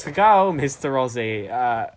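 hammed-up bad Australian accent; Mister Aussie. Mister Aussie signing off from the show, overdone Australian accent. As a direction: lay the Aussie slang on thick. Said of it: "bad impression of an Australian person called Mister Aussie".

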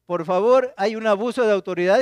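rally the neighbors to watch; calling to the neighbors. Retold or imitated.

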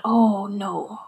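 breathless hushed oh no; whispered thought. Retold or imitated. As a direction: whisper it to yourself in dismay. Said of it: "And I thought".

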